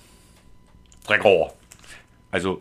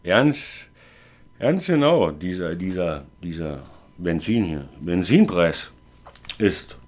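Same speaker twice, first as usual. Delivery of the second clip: put-on town drunk; 3 semitones lower, slower than usual. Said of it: "Also ich bin der Betrunkene".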